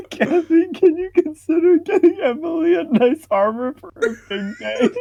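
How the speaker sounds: high put-on voice, mocking; mock reading voice. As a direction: read it out in a silly high voice.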